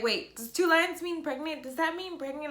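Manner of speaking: high, excited disbelief; breathless excited questions; ecstatic. Retold or imitated. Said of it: "ecstatic when I saw that".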